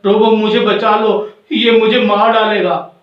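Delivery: frightened storybook yell; screaming for help. Acted. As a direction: call out in alarm to be saved. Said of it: "सुपंखी चिल्लाती हुई आती है".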